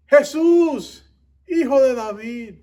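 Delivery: desperate high cry shouted across a crowd; loud pleading yell; full-lung shout. Acted. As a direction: call out at the top of your lungs, high and loud. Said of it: "empieza a gritar desde todo pulmón".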